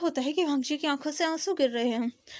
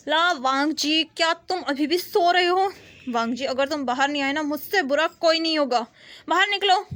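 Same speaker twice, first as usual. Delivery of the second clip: sister yelling through a door to wake him; impatient sister's call, growing louder at the end; 2 semitones higher, 3 dB louder than usual. Acted. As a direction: raise your voice to get him out of bed. Sister bangs on door calling.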